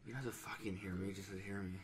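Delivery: sultry and smooth. Pretend. Podcaster testing his mic level, sultry and smooth. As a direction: keep it hushed and sultry. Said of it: "It sounds sultry and smooth".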